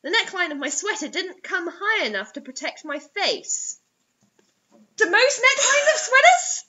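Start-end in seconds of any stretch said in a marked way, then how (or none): 5.0-6.7 laughing. Real, not acted. Mocking a misread line.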